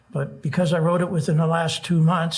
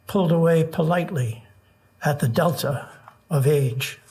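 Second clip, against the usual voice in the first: nervous open mic poet. Acted. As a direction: read each line with long pauses. Reads a short poem aloud.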